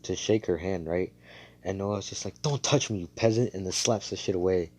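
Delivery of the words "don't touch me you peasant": mildly snooty, higher-pitched snap; haughty rebuff. Retold or imitated. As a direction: imitate a royal recoiling from a commoner. Snobbish royal rebuffs a handshake.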